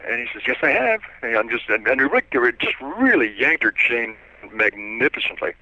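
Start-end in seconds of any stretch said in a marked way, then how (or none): 0.5-1.0 a hint of high prim officer; mock-official little reply; quiet little voice. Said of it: "kind of a quiet little voice".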